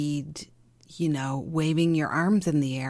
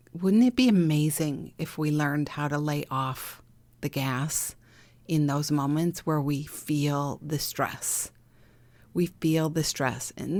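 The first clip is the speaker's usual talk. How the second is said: ordinary delivery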